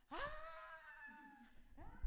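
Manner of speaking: muffled, drawn-out "aah"; mock scream let out in the open; venting scream. Preacher alone in an open field, screaming.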